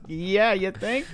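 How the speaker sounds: high, slow, stretched-out retort; sarcastic agreement. Retold or imitated. Host retelling his answer to Alice, sarcastic agreement. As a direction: drag it out with mock obviousness.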